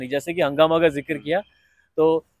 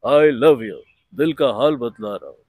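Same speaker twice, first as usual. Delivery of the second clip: lower, mechanical love confession in Arjun Rampal's voice; robotic Arjun Rampal; 6 semitones lower, 4 dB louder, slower than usual. Retold or imitated. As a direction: say I love you like a robot, low and level. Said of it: "बंदा इतना robotic है".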